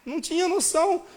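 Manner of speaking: loud, high, marvelling exclamation; high, loud disbelief at his own boldness; excited. Real, not acted. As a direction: burst out in wonder at himself. Excited retelling of proposal.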